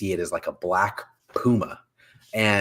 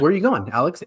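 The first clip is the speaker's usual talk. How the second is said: clingy friend; 5 semitones higher, faster than usual. Retold or imitated. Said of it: "like your really clingy friend".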